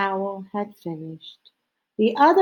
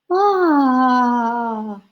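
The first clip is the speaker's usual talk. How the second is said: breathed ah; 4 semitones higher, 5 dB louder than usual. A narrator's reading. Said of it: "they breathed".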